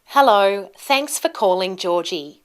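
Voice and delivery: ordinary delivery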